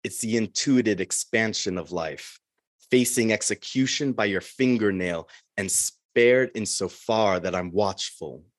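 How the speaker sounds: measured, deliberate poem delivery; poetry reading. Acted. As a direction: read it like a poet at a reading. Poem read before greeting.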